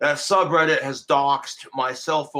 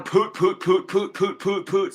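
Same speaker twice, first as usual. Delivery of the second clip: mock poot noises; 4 semitones higher than usual. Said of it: "They're all going".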